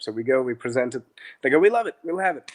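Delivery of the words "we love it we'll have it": eager approval. Retold or imitated. Owners eagerly accept the app.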